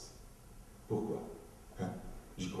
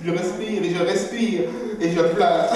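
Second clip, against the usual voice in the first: higher, louder forced crying; mock labour breathing; 10 semitones higher, 10 dB louder than usual. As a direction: push the tears out like giving birth. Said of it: "comme si j'étais en train d'accoucher".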